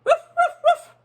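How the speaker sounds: high, loud yappy barks; dog barking. Acted. Teacher voicing the dog guarding the house, loud barks. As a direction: bark like a small excited dog. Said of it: "and he barked".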